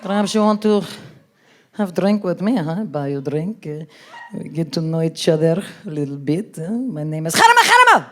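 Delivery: put-on low, halting Arab-accented come-on; mock Arab accent. Arab man offering a woman a drink, mock Arab accent. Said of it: "hit on by an Arab dude".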